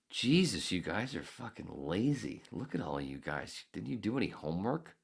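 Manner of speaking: mock exasperated teasing, lively pitch swings; joking jab. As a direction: tease them with playful fake reproach. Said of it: "Anyway, I jokingly go".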